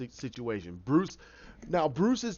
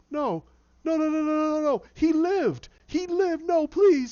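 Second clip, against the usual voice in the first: higher, louder frantic begging; desperate pleading; 12 semitones higher, 7 dB louder than usual. Retold or imitated. Jervis begging the doctor not to pull his study, frantic. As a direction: plead with rising panic.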